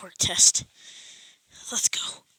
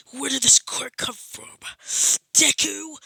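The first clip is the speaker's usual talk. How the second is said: louder, higher indignant yell; a hint of a Bakugo outburst; shocked shout; 5 semitones higher, 6 dB louder, slower than usual. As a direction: demand answers from Deku.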